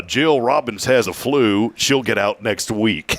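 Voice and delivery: lightly voiced small-town announcer, slow; a hint of an old country radio man reading the list, slowly. Grandma's radio station's hospital report, slow announcer drawl. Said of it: "like a Cooter Roberson type voice".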